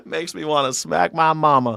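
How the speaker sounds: chuckling repeat; amused, laughing echo. Real, not acted.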